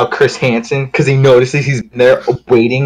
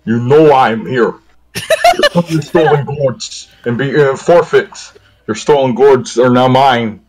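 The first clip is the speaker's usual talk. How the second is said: Skyrim guard voice. Pretend. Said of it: "I'll do it on my next line".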